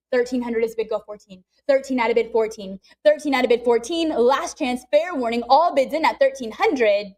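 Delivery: rapid auction chant; calling bids like an auctioneer. Real, not acted.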